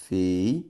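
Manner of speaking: Fei-u-ra dito sílaba por sílaba, separado; syllables split. Shown as a demonstration. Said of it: "eu tenho isso aqui, ó". (Fei-u-ra silabado)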